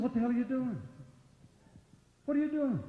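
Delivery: high, loud furious demand; retelling a blow-up at a wrestler, shouting high; retold angry yell. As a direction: yell it at the world champion in disbelief. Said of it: "I said".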